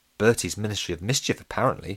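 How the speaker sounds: ordinary delivery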